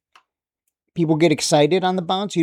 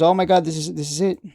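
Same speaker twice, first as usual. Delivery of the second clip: mock excited investor. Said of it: "they get excited 'cause".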